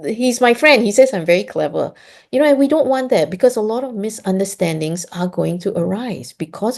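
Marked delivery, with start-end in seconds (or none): 0.0-1.9 put-on happy child. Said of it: "Our kids are very happy and say".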